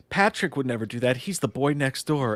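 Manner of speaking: a hint of a prim girlfriend; Evelyn's voice. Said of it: "Evelyn's like".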